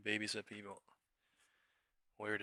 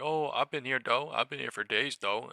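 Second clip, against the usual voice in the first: louder whiny mimicry with rising ends; mocking channel hopper; 3 semitones higher, 9 dB louder than usual. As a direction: play the fake loyal viewer, lightly mocked. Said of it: "they're like".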